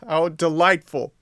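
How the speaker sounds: high, loud delighted cry; puppet's elated, high-pitched exclamation; joyful shout. A narrator's reading. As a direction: shout it as if jumping for joy. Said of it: "shouted Pinocchio, jumping for joy".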